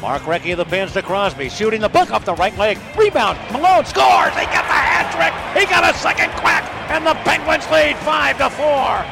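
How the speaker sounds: excited radio goal call; rapid hockey play-by-play. Real, not acted. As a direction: call the rush fast, erupt at the goal.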